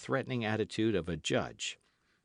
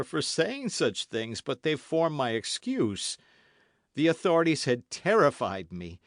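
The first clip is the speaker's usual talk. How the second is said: loud, higher pleading; fearful apology; 4 semitones higher, 6 dB louder than usual. A narrator's reading. Host excusing himself to D'Artagnan, fearful. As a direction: apologize anxiously.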